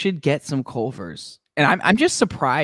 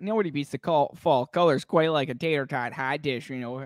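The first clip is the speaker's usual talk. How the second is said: mock Midwestern accent; 4 dB louder than usual. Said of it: "Midwestern accent".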